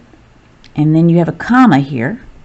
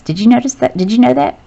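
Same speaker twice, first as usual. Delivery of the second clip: raised, playful did-you-know questions; a higher, curious did-you-know tone; playful wonder; 7 semitones higher, much faster than usual. Real, not acted. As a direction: tease the class with a surprising fact. Teacher sharing a fun fact.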